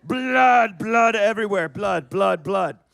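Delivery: loud, high, drawn-out shout; loud excited yelling. Real, not acted. Actor shouts to the crowd about blood everywhere. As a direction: yell each blood like it won't stop.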